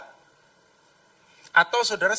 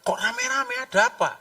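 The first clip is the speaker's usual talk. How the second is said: puzzled question. Acted. Blind man hears a crowd passing, high puzzled question. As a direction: ask in a raised, wondering voice. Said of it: "Pertama dia dengar".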